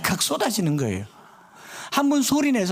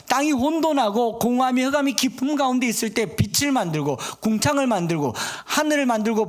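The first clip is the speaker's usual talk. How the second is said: God speaking to Job; 5 semitones higher than usual. Acted. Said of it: "이 말입니다".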